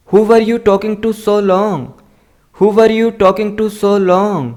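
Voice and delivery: slow, careful dictation of each word; slow model reading. Shown as a demonstration. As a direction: read it out slowly for learners to copy. Teacher slowly models English sentences. (धीमी, साफ़ पढ़ाने वाली आवाज़)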